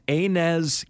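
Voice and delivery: Enes said as AY-nez, drawn out; careful "AY-NEZ" for Enes; pronunciation demo. Shown as a demonstration. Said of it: "His name is pronounced".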